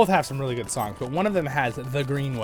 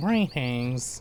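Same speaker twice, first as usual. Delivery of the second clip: put-on nasal voice. Imitating a game character's greeting: nasal voice of Burnt. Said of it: "He's got a very nasal sound".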